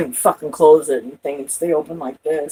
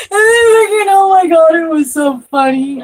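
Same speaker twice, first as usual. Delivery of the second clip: laughing; 11 semitones higher, 5 dB louder than usual. Real, not acted. Laughing recalling friend.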